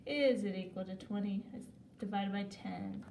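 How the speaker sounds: rattled-off run of repeated questions; auctioneer-like. Real, not acted. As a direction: reel off the sums in an even, rolling chant, lightly like an auctioneer. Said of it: "I sound like an auctioneer".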